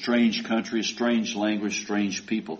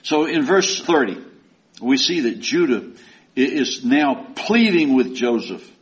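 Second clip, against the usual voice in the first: usual speaking voice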